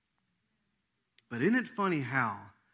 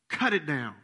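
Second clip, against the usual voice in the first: firm, graceless order; truth, no grace; 3 dB louder than usual. Acted. Vineyard owner to his keeper, firm and graceless. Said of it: "What does that sound like?".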